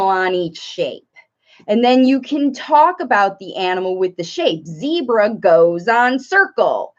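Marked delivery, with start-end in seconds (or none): 4.7-6.9 slow, simple teaching phrase; modelling for toddler. Shown as a demonstration. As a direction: state it slowly for a small child.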